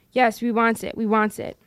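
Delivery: a lightly voiced Gollum, scheming and wheedling. Gollum arguing with himself over the ring, in a scheming wheedle. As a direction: Gollum muttering to his precious, coaxing himself.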